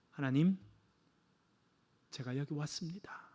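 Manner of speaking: a soft, low, humble prayer; quiet prayer. Retold or imitated. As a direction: pray under your breath, bowing the head. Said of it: "잠깐 머리 숙여 기도했습니다". (머리 숙여 조용히 드리는 기도)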